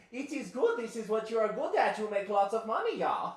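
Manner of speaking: loud, high exaggerated Boston accent. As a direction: bark orders in a thick Boston accent. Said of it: "That's how she talks".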